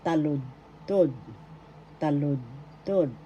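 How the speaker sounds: slow "taludtod", TA-lud-tod; first-syllable stress. Shown as a demonstration. Teacher gives verse in Tagalog, slow "taludtod" stressed on ta. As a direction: set apart the syllables of "taludtod". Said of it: "The accent is in the first syllable".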